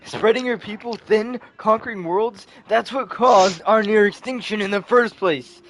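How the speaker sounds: acted angry outburst; angry accusation. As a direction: hurl the accusation with rising outrage. Acted villain confrontation in comic.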